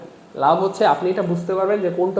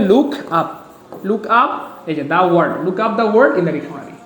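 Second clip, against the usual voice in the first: slow careful reading; slower than usual. Shown as a demonstration. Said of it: "see বলবেন না, look up".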